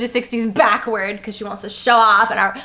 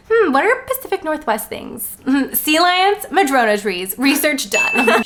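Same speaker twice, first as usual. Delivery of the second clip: mock pondering; 4 semitones higher than usual. Mocking author's thinking.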